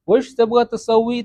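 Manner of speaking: teacher modelling slowly; slow model phrase. Shown as a demonstration. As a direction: spell it out slowly for students. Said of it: "تم کیا کروانا چاہتے ہو".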